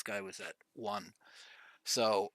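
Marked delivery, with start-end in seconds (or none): 1.8-2.3 words broken by a cough. Real, not acted. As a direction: cough partway through the line. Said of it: "excuse me, I'm coughing a bit".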